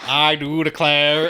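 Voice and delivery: lightly presidential accent attempt; John F. Kennedy. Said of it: "You sounded like, you sounded like".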